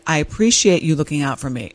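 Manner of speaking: even, measured retold thanks; calm, non-combative appreciation; sincere, not bitchy. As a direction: acknowledge a partner without any edge. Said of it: "And I didn't say it bitchy".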